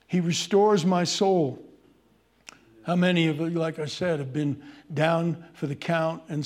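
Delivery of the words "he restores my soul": louder, proclaimed verse; ringing proclamation. Acted. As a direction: declare it to the whole room.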